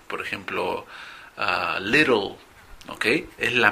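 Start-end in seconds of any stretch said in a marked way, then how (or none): 1.3-2.4 little said slowly with clear English L sounds; English word little. Shown as a demonstration. Teacher giving students an English example, slowly. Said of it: "Es muy parecido cuando decimos".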